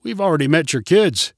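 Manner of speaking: friendly greeting, lifted high on the hello; friendly call. A narrator's reading. Neighbor greeting the children's parents, friendly call. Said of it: "called Roger in a friendly voice".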